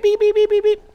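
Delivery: high robotic beeping; seatbelt chime beeps. Retold or imitated. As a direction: beep like a car seatbelt warning. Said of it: "My fucking seatbelt thing would be like".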